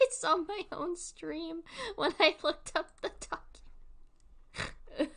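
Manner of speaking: slow amused whisper; whispered giggly aside. Real, not acted. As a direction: hush it like a secret. Amused aside on finding stream.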